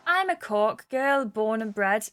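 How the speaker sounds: attempted Irish accent, taken slowly; Kelly. Kelly says where she's from, in a tentative Irish accent. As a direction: have a careful go at a Cork accent. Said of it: "learn how to do an Irish accent".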